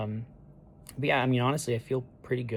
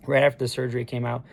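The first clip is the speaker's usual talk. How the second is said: raspy voice; 6 dB louder, faster than usual. Real, not acted. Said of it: "as you can hear, my voice is a little raspy".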